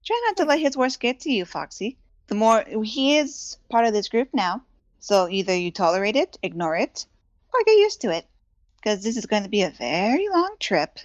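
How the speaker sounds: lilting in-character advice, pitch jumping on key words; teasing adviser. Acted. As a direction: counsel a touchy companion with playful firmness. Jezebel advises Ryu in character.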